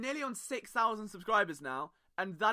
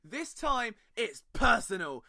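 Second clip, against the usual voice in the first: dramatic trailer read, slowing on the hook; TV promo voice. Pretend. Podcast host opening like a TV promotion for Eagles versus Saints. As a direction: hype the big game like a network promo. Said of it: "that did borderline sound like a T V promotion".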